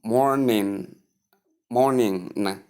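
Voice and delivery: "morning" with n in place of ng; wrong n ending. Shown as a demonstration. Teacher showing learners the wrong ways, wrong n ending. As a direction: say morning slowly as MOR-nin, ending in n. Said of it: "not n".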